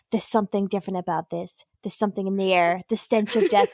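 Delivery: low, portentous mock delivery; a touch of doom; ominous quote. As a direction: lightly act out a grave warning. Quotes the ominous line before joke.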